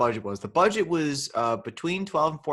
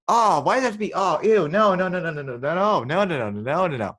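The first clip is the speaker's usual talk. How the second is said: disgusted protest; 3 semitones higher, 4 dB louder than usual. Real, not acted. Reacting to professor-student plot.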